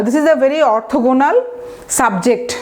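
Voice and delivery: slow, deliberate model sentence; slow example sentence. Shown as a demonstration. Teacher modelling a usage example, slow and careful. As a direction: read it out word by word. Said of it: "orthogonal".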